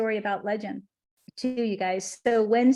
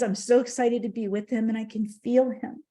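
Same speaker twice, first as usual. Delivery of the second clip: tearful. Real, not acted. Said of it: "I'm just welling up with tears".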